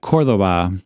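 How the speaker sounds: Cordoba with the stress on the second to last vowel, DO; Spanish stress. Shown as a demonstration. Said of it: "you put the accent on that".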